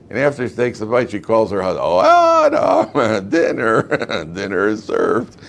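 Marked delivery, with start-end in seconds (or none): 1.8-5.4 mock calling out. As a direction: hoot it sweetly like a comic wife calling her husband. Acts Eve calling her husband over.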